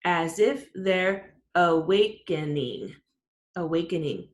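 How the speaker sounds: As if they're awakening said slowly, syllable by syllable; counting syllables. Shown as a demonstration. Teacher counting the second line slowly. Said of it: "Let's see".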